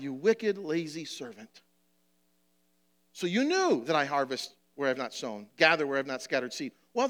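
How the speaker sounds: preacher reading the story of the talents; scripture reading. Acted. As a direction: read the parable to the church. Reads the parable aloud.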